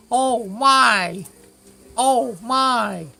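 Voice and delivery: high, loud gasping oh my; shocked. Pretend. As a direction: squeal it in mock shock. Mock shocked reader of files.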